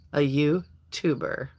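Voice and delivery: slow deadpan punchline. Acted. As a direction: land the bad joke slowly. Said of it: "okay, ready?".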